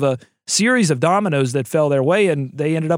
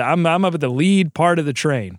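ordinary talk, nothing marked

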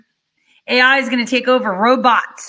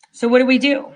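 ordinary talk, nothing marked

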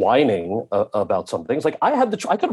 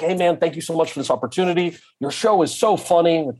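higher-pitched retold flattery; ingratiating; 6 semitones higher than usual. Actor thanking the director at the coffee cart, ingratiating. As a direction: lightly act out buttering up a director.

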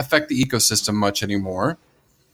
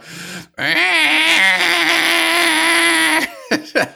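Tasmanian devil screech. Acted. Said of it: "I guessed it from that noise".

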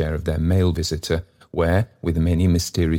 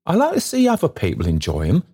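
speaking very loud; 11 semitones higher, 4 dB louder, faster than usual. Acted. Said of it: "speaking very loud to impress the fact".

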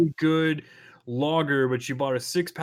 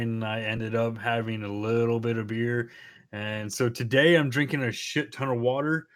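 hungover; 2 semitones lower than usual. Real, not acted. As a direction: speak like the morning after drinking. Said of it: "I drank way too much last night".

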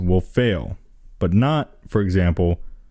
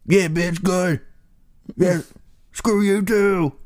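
high, slowed, drawn-out taunting voice; high mocking whine stretched slow; mock sneering phone; 10 semitones higher, slower than usual. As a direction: drag it out like a snide phone. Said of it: "the phone's like".

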